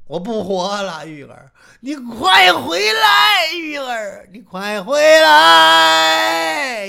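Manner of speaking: slow tearful pleading, flaring into loud cries; wailing lament. Acted. Jinxiu pleads with heaven to return his Yu'er, slow wailing lament. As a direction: beg heaven through sobs, stretching every word. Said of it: "哭的这个惨呐".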